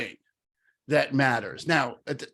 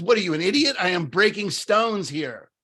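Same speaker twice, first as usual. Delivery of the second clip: snappish, louder retort with higher pitch; irritated stonecutter; 5 semitones higher, 3 dB louder than usual. Retold or imitated. A sweaty stonecutter snaps at a traveler, mild mock anger. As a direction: bite back at the nosy stranger.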